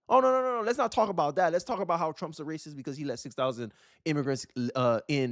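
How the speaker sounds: sarcastic mock hushing of the topic; sarcastic protest. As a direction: fake alarm, dripping sarcasm.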